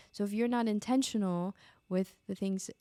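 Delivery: usual speaking voice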